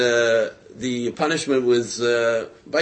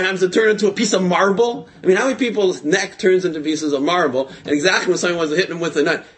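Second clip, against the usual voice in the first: laughing disbelief; 6 semitones higher, 4 dB louder than usual. Acted. Incredulous rant about the miracle.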